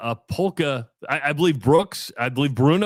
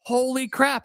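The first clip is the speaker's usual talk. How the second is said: surprised; 10 semitones higher, slower than usual. Retold or imitated. Wife names his old town.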